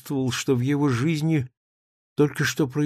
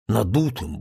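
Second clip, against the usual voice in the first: plain reading voice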